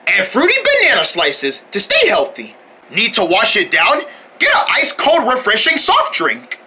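showy food commercial delivery; bouncy, emphatic announcer pitch; pretend ad read. Announcer sells food and toy meal, showy ad read.

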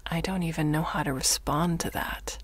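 flat, frustrated reply; understated frustration, low energy. Acted. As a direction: answer with weary, held-in frustration. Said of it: "nothing in your voice but frustration".

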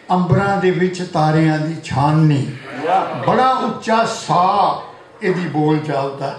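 rhythmic verse, line by line; poetry recitation. Acted. Poet honouring a friend turning eighty, rhythmic recitation. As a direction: recite each line to the room, pausing between them. Recites birthday poem to audience.

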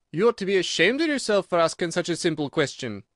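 high, emphatic telling-off; scolding Gryphon. A narrator's reading. Gryphon scolding Alice for her question, high and reproving. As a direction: shame the listener sharply.

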